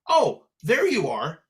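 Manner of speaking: drawn-out, mildly mothering delivery; a slow, hint-of-mom imitation; lightly imitated mother. Sister echoing mother after finding him online, lightly imitated mother. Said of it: "she sounded just like our mother".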